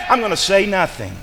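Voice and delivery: abrupt drop from yelling to ordinary volume; sudden climb-down. Acted. Jacob backing off after his rage, suddenly subdued. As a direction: deflate right after the outburst. Rage collapses into saying nothing.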